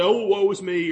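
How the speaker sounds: sarcastic woe. Shown as a demonstration. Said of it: "almost sarcastically".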